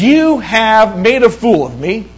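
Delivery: a touch of retold indignation; mock upset. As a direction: lightly act out an offended complaint. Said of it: "really getting upset".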